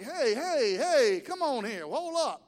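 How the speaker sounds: hey hey, back off, half joking; mock protest in a crowded train. Preacher acting out being groped on a subway, loud protest. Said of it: "I'm like".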